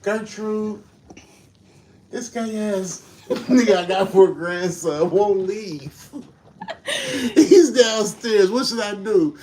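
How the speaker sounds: grandma voice. Retold or imitated. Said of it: "with a grandma voice".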